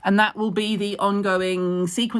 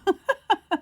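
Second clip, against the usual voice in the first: high giggle; 13 semitones higher than usual. Real, not acted. Laughs at herself.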